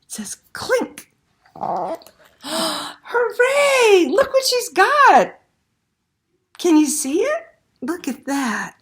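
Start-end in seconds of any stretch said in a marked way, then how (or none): 2.4-8.8 much higher, louder cheer; real delight, a cheering shout; excited cheer. Real, not acted. Reader cheers Una's success.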